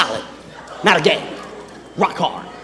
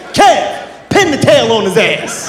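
uncle calling out; slower than usual. Retold or imitated. Uncle calls to nephew in lounge.

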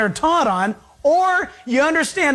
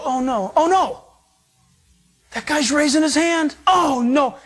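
hammed-up alarmed voice, higher and rising to a laughing shout; mock panicked God; 6 semitones higher than usual. Preacher mocking a reluctant God, hammed-up panicked shout. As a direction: play a God frantic to keep someone out, half laughing.

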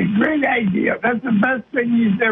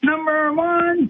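drawn-out, higher "number one"; slow, raised catchphrase delivery; said the right way; 6 semitones higher, slower than usual. Shown as a demonstration. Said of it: "You gotta say it the right way".

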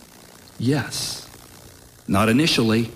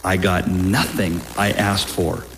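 prayer reading. Acted. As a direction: read it like a sacred poem. Reads a soldier's prayer aloud.

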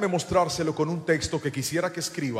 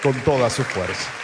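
loud, insistent sermon delivery; forceful preaching; 8 dB louder than usual. Real, not acted. Preacher urging the church to obey before enjoying, forceful preaching. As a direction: press the lesson home to the crowd. Preaching builds to applause call.

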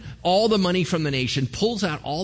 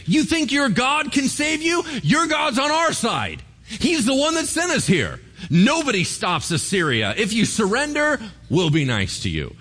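retold yelling; 10 semitones higher than usual. Assyrian commander taunts the city from below, shouting. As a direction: bellow it up at the wall. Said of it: "he starts yelling at 'em".

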